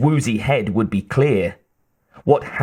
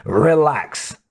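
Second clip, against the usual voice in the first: evenly; 3 semitones higher than usual. A narrator's reading. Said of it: "said Harry evenly".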